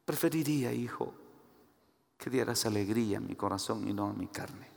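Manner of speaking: soft, low appeal to a son; hushed, confiding father's wish; gentle fatherly plea. Acted.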